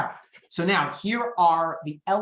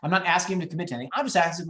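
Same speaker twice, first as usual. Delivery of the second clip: ordinary delivery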